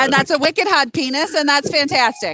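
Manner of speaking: lightly done Boston accent ASMR; a hint of Boston, casual ASMR talk. Shown as a demonstration. Creator doing ASMR for fans, light Boston accent. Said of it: "But with a Boston accent".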